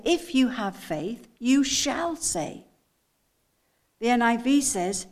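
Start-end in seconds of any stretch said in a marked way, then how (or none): 0.0-2.7 slow, drawn-out "shall"; weighty "shall" after a measured "have"; stress on shall. Shown as a demonstration. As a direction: stretch "shall" as a firm promise. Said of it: "I want you to get the inflection in my voice".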